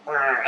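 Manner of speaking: imitated grunt of straining; short grunt as if hauling on a rope; effort grunt. Dreamer retelling a hard pull on the rope, straining grunt.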